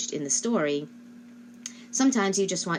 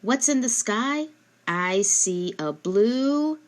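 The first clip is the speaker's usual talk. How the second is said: put-on prompting a child; 4 semitones higher, slower than usual. Shown as a demonstration. Parent pointing at the sky for child, slow hanging prompt. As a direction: question pitched higher, then "I see a blue," slow and hanging. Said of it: "you might say".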